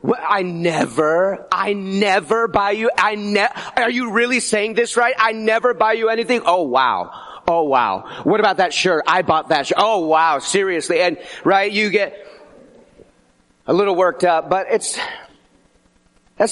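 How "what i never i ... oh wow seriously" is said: hammed-up indignant outrage; a hint of a jealous girlfriend, half-joking; mock jealous girlfriend. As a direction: play the offended girlfriend who can't believe it. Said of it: "kinda jealous girlfriend".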